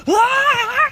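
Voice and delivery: high loud primal scream; raging scream. Retold or imitated. Scaring off the drunk man, loud raging scream. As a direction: let out a wild furious scream. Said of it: "what's he seeing is".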